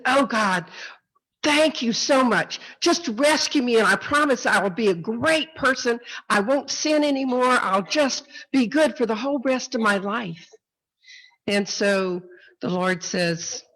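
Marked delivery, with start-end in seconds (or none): 0.0-10.5 higher-pitched, acted gushing plea; hammed-up grateful promises; grateful pleading. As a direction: bargain eagerly for rescue. Jack thanks and pleads with God.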